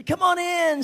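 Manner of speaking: high, loud, bright welcome of a hostess; excited hostess opening the door; cheerful greeting. Retold or imitated. Sister Branham greets at door.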